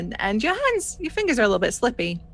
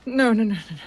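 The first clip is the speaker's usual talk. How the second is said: lightly voiced frightened sailor, pressing; a touch of a haunted young pirate; shaken young gunner; faster than usual. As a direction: refuse like a scared deckhand.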